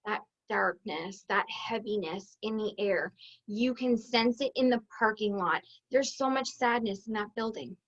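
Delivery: low, hushed, heavy delivery; subdued, weighted with sorrow; somber. Pretend. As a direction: speak softly, as in a funeral home. Describing walking into a funeral home.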